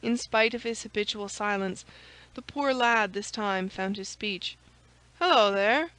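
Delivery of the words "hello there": startled lackey calling out, louder; a sharp cry at a sudden intruder; cried out. A narrator's reading. Startled servant to the intruder, a sharp cry. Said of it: "cried he".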